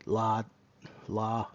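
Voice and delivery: Lad with a long open "ah", then La with no d at all; Scouse pronunciation. Shown as a demonstration. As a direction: practise Lad the Liverpool way, ending as La. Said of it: "they don't use the D".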